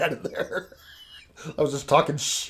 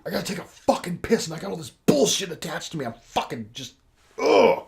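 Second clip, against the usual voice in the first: mock yell; 5 semitones higher than usual. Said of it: "and I'm yelling at her".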